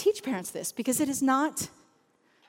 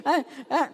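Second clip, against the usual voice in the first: mock sobbing; hammed-up little sobs, half laughing; imitated crying; 4 semitones higher than usual. Imitating a tired mom crying to worship music, mock sobs.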